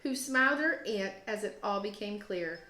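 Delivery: gentle, expressive picture-book read-aloud; reading to children. Acted. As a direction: read it like story time for second graders. Teacher reads picture book aloud.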